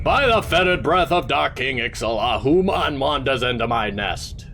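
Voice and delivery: a touch of menace; lightly voiced menacing spider; mock-threatening spider. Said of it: "takes on a more menacing tone".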